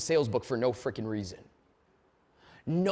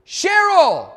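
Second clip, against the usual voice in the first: high, loud delighted call of her name; big excited hello; excited greeting; 13 semitones higher, 12 dB louder than usual. Retold or imitated. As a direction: greet her like a long-lost friend.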